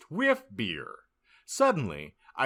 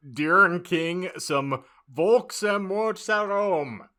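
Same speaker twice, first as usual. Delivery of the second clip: put-on a light whiny emo teen; high, slow, lightly whiny goth teen; 7 semitones higher, 5 dB louder, slower than usual. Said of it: "said in an emo voice".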